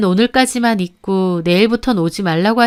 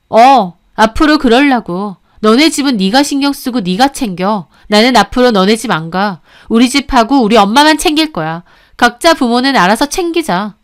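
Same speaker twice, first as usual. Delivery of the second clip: simmering wife laying down terms; firm retort with a touch of held-back anger; suppressed anger. Acted. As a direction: hold the temper in, push each point home. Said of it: "부글대는 속을 참으며 말했죠".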